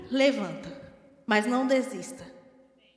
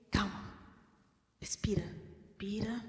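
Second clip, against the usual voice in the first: soft, low, reassuring breathe; gentle calming; 3 semitones lower, 11 dB quieter than usual. Retold or imitated. God calming her before she loses her temper, soft and reassuring. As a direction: hush them down tenderly. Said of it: "ele vem".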